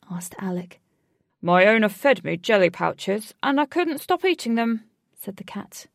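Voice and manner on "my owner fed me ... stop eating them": lightly voiced talking cat; purring cat. The giant cat speaks.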